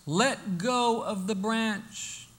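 very slow, measured command; the Lord instructing. Acted. The Lord tells the hanging man, slow and measured. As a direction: draw each word out, unhurried. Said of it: "the Lord says".

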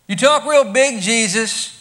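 high, loud jeering challenge; mocking insults. All three groups insulting Jesus on the cross, loud jeering. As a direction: taunt him as all talk. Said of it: "insulting him with the same words".

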